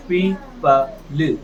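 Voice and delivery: "पी प ल" split into slow separate syllables; sounded out slowly. Shown as a demonstration. Teacher sounds out "पी प ल" slowly for the class. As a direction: blend it slowly, piece by piece. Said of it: "तो क्या बना?".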